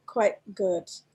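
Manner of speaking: quite good said hesitantly, with doubt. Showing how "quite good" is said in Singapore, hesitant doubtful tone. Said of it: "There's a tone of hesitation".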